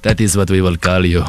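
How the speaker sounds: put-on solemn naming voice; mock pronouncement. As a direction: decree a silly name, drawing it out. Mock naming pronouncement, played in role.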